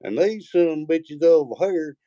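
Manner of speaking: high, slow incredulous rant; mock disbelief. Recalling his shock on first hearing Tennessee talk, slow and high. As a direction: sound amazed at the accent. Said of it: "and I'm like".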